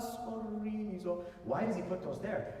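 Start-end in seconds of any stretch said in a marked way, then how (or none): 0.0-1.2 slow sorriso. Shown as a demonstration. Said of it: "come back to sorriso".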